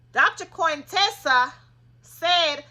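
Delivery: loud, slow, high and heated; real worked-up near-shout; passionate yelling. Real, not acted. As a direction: push it out like you can't contain it. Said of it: "I'm sorry if I'm yelling".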